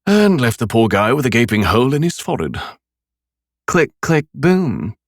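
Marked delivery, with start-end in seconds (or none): 3.7-4.9 high, gleeful snicker; snickering girl. A narrator's reading. Daughter mocking a dead man, snickering. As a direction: tease it out with a giggle. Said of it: "snickered Rachel unsympathetically".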